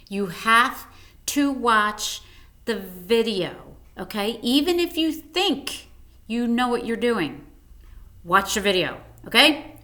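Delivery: firm, stern teacher warning. Shown as a demonstration. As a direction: lay down the rule like a strict teacher. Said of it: "I just used my teacher voice there".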